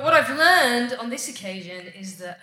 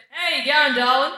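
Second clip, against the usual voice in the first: lightly imitated Aussie man's greeting; casual Aussie endearment, a little higher; a hint of an Aussie bloke; Aussie accent; 3 semitones higher than usual. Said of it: "not true with an Aussie accent".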